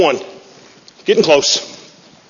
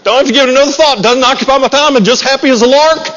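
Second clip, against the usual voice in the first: high, airy, smug carefree tone; sing-song like a happy lark; mock carefree voice; 8 semitones higher than usual. Mocking a carefree worldly person.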